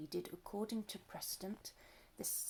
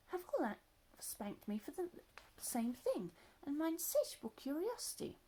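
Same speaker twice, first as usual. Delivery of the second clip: put-on little elephant child; 6 semitones higher than usual.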